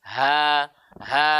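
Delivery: HA with light breath and open vowel; clean, light HA sounds; thin ha. Shown as a demonstration. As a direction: keep each "ha" thin and unrounded. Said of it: "Padahal huruf tipis".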